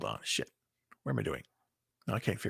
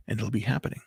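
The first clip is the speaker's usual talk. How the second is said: whisper; 2 semitones lower, 8 dB quieter, much faster than usual. Real, not acted. Intimate point about holding close.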